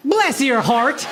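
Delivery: slow, sugary Southern lady; sweet Southern woman. Retold or imitated. Quoting a conservative white woman, slow and sugary. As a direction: drawl it out sweetly like a church lady. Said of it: "most hateful thing ... ever said to me".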